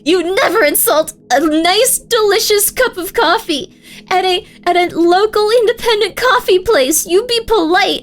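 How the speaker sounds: half-hammed retold rant; mock outrage. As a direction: lecture him about coffee like it's a moral crime. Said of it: "I was so pissed off about that".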